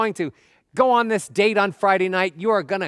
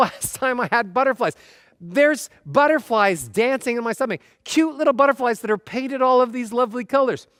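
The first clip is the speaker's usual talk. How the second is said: higher-pitched, delighted marveling; acted giddy delight; 5 semitones higher than usual. Dater marveling at butterflies dancing in their stomach, giddy delight. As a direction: play someone thrilled by their own nerves.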